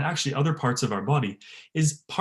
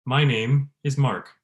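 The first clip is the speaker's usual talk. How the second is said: slow, fully voiced to the end; hello said with full voice throughout; slower than usual. Shown as a demonstration. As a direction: keep voice on every word. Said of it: "so that everything you say has voice".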